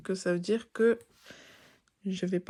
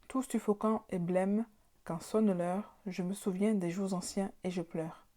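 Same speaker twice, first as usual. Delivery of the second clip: poem recitation. Shown as a demonstration. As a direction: read the verses like a recital.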